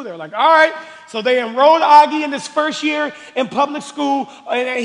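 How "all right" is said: tag. Retold or imitated. Voices parents agreeing in the story.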